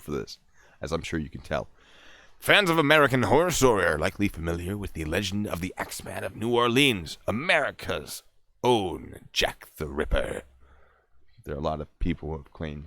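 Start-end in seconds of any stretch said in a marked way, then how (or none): 2.4-10.4 punchy true-crime reading voice; theatrical article read, drawing out the key names; dramatic story narration. Acted. Reads article in performing voice.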